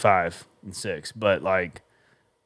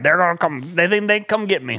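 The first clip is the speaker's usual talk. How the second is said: lightly acted higher-pitched villain quote; a hint of a paranoid villain, pitched up; mock ranting villain; 5 semitones higher than usual. Imitating what the villain kept saying, mildly hammed-up high voice.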